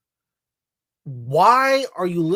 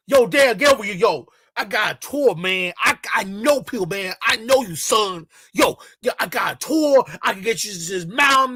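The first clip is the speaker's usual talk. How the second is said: a hint of a hyped street hustler, slightly raised; mock hustler; 2 semitones higher than usual. Mocking the guide hustling tourists, lightly raised and pushy. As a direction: pitch your tours like a pushy hustler.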